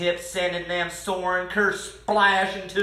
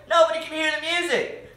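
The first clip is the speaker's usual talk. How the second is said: high, quick telling-off; scolding; 9 semitones higher, faster than usual. A narrator's reading. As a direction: scold like an exasperated mother. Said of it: "Mama scolded".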